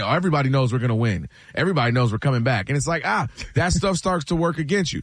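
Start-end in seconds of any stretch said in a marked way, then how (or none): 0.0-2.7 imitated excuse-making. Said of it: "And you keep saying".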